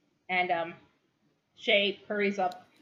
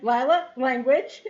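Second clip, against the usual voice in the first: scolding mother; 6 semitones higher, 10 dB louder, slower than usual. Acted. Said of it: "Shay's like".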